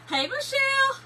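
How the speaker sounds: high, bright-pitched hey to a viewer; sing-song greeting. Real, not acted. Greeting a viewer who just joined, high and sing-song. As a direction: sing out the hello.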